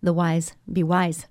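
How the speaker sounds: whispered wordplay, half joking; playful whisper. Shown as a demonstration. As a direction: breathe it like a secret pun. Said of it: "just a word to the wise".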